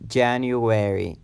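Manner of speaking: January said slowly, syllables drawn out; a slow teacher's January; careful pronunciation. Shown as a demonstration. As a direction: model January slowly for learners. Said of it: "pronunciation of months of the year".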